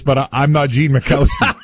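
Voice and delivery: the correction breaks into laughter; can't keep a straight face; laughing. Real, not acted. Chief tells the fan he has the wrong man, laughing.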